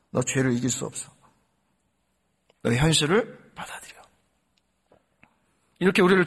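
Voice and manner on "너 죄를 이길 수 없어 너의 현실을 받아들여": lower, softer taunt; Satan's whisper-like voice. Retold or imitated. Preacher voicing Satan tempting the believer, lower and softer. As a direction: lean in low and soft like a tempter. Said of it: "계속해서 이야기합니다".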